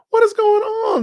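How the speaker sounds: high, loud call to the viewers; loud greeting. Real, not acted. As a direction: call out the hello big and high. Stream host greeting his viewers.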